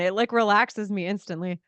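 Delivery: talking through a yawn; words stretched by a yawn. Real, not acted. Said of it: "and I'm already yawning".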